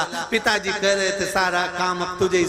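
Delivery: lightly imitated weeping son; a touch of pretend crying, trailing into a wail; mock tearful. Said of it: "छोरा रोते रोते बोला".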